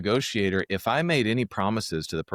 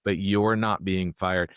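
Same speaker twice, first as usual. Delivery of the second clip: slow reassurance; slower than usual. Shown as a demonstration. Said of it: "take the things off the table".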